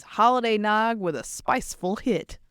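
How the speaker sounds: put-on reading the label in a Southern accent. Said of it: "I'm doing it in Southern accent".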